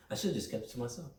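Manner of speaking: fast, laughing it off. Real, not acted. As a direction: giggle through the words. Laughing at himself.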